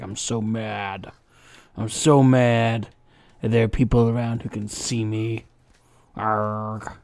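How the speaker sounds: slow, lightly voiced sulking dragon; grumpy dragon voice. Streamer voicing the chained dragon complaining, slow mock grumble. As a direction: drag the words out like a grumbling beast. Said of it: "He's like".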